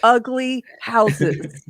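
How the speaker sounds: very slow, drawn-out proclamation; mock decree. Host playing a city councillor banning ugly houses, emphatic. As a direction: stretch each word like a mock ruling.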